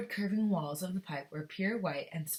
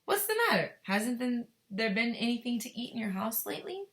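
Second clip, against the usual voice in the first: higher, louder eccentric Wonka; concerned Wonka; 6 semitones higher, 3 dB louder than usual. Acted. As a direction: ask it with surprise, a bit pushy. Wonka voiced asking.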